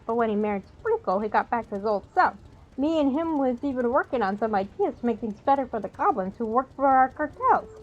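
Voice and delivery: tough New York goblin talk; New York accent. Acted. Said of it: "uh, New York accent there".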